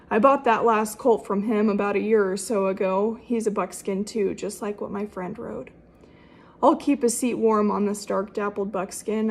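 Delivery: gently recited rhyming verse; cowboy poetry. Shown as a demonstration. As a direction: recite it like a fireside cowboy poem. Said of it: "make a cowboy poem out of it".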